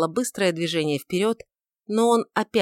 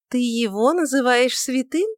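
mocking question pitched up high; ironic; 6 semitones higher than usual. A narrator's reading. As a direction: sneer at the word святым. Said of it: "иронически сказала она".

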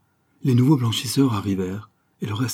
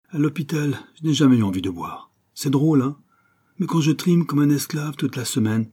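tipsy workman explaining himself, often higher; lightly voiced tipsy Joey; 3 semitones higher than usual. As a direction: plead the hard worker's case for drinking. Voices drinker Joey in a story. (ouvrier éméché qui se justifie, légèrement joué)

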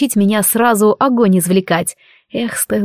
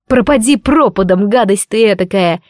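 pained shout. Acted. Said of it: "Я кричала".

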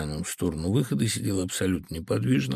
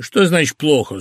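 forceful, higher stern challenge; 5 semitones higher, 7 dB louder than usual. A narrator's reading. Phil challenging his friend's apology, stern. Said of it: "сурово сказал Фил".

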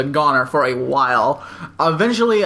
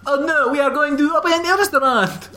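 put-on French accent; 9 semitones higher than usual. Mock French wife voice.

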